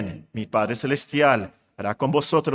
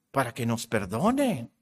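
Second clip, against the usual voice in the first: softer, slower repetition of the key words; quiet slow emphatic echo; 5 semitones lower, 5 dB quieter than usual. Shown as a demonstration. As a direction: let it sink in gently, lower.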